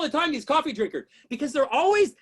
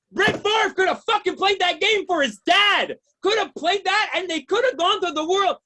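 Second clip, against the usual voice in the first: raised, higher comic indignation; aggrieved stand-up rant; mock outrage; 3 semitones higher than usual. Outrage at the lost game.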